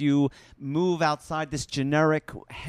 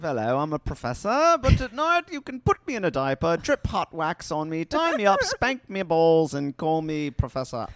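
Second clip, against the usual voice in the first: kinky English professor; 3 semitones higher than usual. Retold or imitated. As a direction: ham up a prim professor. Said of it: "that suppressive".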